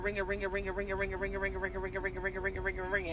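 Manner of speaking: soft repeated ringing, fading; quiet mock ringing chant; ringing drone. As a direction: drone it like a phone left to ring. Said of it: "the phone just keep ringing".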